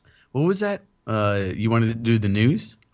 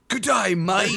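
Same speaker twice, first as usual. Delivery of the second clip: higher-pitched, badly faked Canadian accent; "Canadian" that sounds like mock Australian; joke Canadian accent; 6 semitones higher, slower than usual. Shown as a demonstration. Showing off accents to friends, jokey failed Canadian accent. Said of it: "Here's my Canadian".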